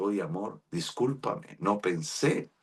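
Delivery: hushed, tender apology; soft apology. Retold or imitated. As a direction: murmur sorry to a crying wife. Apologizing to crying wife.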